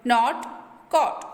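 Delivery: "नॉट, कॉट" with a short, open o; short O sound. Shown as a demonstration. Teacher shows students the short O, open vowel in "नॉट, कॉट". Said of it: "ओ के name की sound नहीं".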